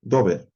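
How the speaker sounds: "dober" with o then e, do-BER; teacher naming the participle form; Hebrew reading demo. Shown as a demonstration. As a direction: sound out "dober" clearly as do-ber. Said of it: "puedo leer un participio que".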